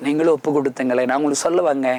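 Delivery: normal talking voice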